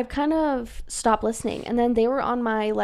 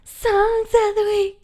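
announcer voice; 10 semitones higher, 5 dB louder, slower than usual. Pretend. Announcing the segment jingle.

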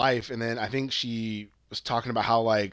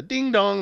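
sing-song "ding dong", pitched up; imitated doorbell; 7 semitones higher than usual. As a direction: mimic a door buzzer chime. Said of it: "the buzzer".

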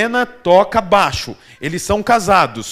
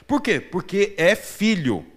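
gentle answer; 5 dB quieter than usual. Acted. Preacher repeats his point gently.

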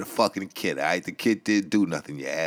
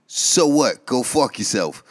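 loud scoff; 4 semitones higher, 5 dB louder, slower than usual. Acted. Ranting host mocking a caller.

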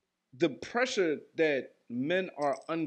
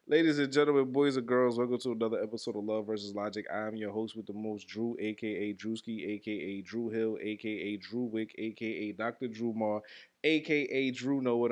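quick announcer intro. Shown as a demonstration. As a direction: punch the greeting, then race through. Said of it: "No, that's not it".

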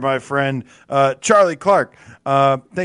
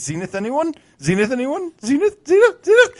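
calling out, building; 9 semitones higher than usual. Pretend. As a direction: call out like searching for a lost friend. Reading out a fan's calling comment.

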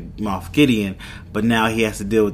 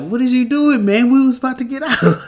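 high, pushed-up disbelief, words tumbling faster at the end; incredulous protest; 13 semitones higher, 3 dB louder than usual. Retold or imitated. Mando to Mayfield after the shooting, high incredulous protest. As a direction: squeal it out like you can't believe what he just did. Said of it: "Mando looks at him like".

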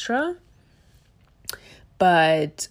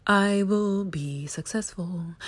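slow, lightly solemn affirmation; put-on affirmation voice; slower than usual. Shown as a demonstration. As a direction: say it slowly like a mantra. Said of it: "why I put on that voice".

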